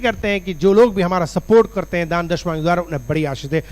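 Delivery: earnest, pressing intercession; insistent public prayer; fervent prayer. Real, not acted. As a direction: plead aloud on behalf of the people. Prays for supporters.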